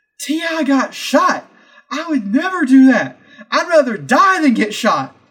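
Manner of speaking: put-on loud, high, drunken yelling at the top of the voice. Retelling a guy yelling in a restaurant: imitating a drunk man shouting. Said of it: "drunkenly shouting at the top of his lungs".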